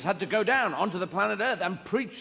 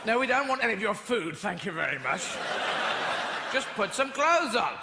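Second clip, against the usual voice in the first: posh settler snub; 4 semitones higher than usual. Acted. Settler refusing natives' food.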